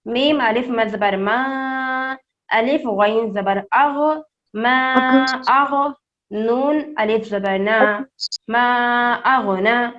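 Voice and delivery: میم الف مد زبر ما, sounded out letter by letter; slow spelled-out reading for children; slow spelling. Shown as a demonstration. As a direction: teach the spelling slowly. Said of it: "بس الف بولیں گے تو بھی چلے گا".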